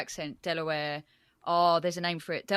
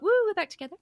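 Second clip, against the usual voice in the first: put-on smug boyfriend cheer; 14 semitones higher, 7 dB louder, much faster than usual. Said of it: "he's all like".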